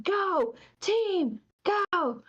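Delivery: imitating a manager's high rallying call; retold loud cheer. Worker retells the manager's go-team chant, high mock yell. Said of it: "just as loud as he can".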